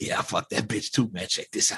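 creepy, breathy, hushed put-on whisper. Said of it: "You sound so creepy".

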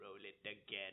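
low, hushed, soft put-on character voice. Retelling an actor at a Star Wars convention, in the Emperor voice. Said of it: "he was like in his Emperor voice".

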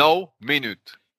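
put-on English accent. Asked how to spell a word, saying it in a put-on English accent. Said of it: "je fais mon accent anglais".

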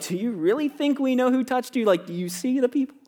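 play-acted, sarcastic, snarky delivery. Acting out the disciples' imagined answer to Jesus: imitating a snarky reply. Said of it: "in the snarky reply".

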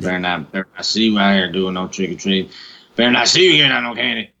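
stern, authoritative cop voice laying down the law. Imitating what a police officer would say to kids on Halloween: cop voice. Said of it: "you were just doing the cop's voice".

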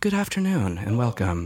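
public-radio host's smooth on-air manner. Admitting they fall into it at the microphone on the show: Terry Gross voice. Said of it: "I find myself like falling into that Terry Gross, like".

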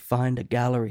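clumsy, bad put-on Scottish accent. Quoting what his buddy Derek would tell him, in a bad Scottish-accent Derek impression. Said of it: "I got a bad Scottish accent or impersonation".

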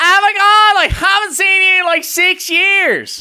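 acted, very high, very loud, gushing excited squeal. Describing people who scream greetings, imitating a woman's mock-excited screaming. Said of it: "the female version of that is like".

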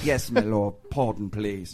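put-on very low, soft, subdued British accent. A character from Turtle Creek answers a rebuke in a British accent. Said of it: "why do you get that british accent".

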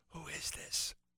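faint, hushed whisper. Retelling the punchline of a phone-call joke: imitating Bill Clinton whispering. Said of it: "whispering voice".

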